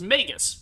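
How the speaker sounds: MAGUS ending in a short "uh"; unstressed "-gus" at the end of MAGUS. Shown as a demonstration. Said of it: "instead of an uh".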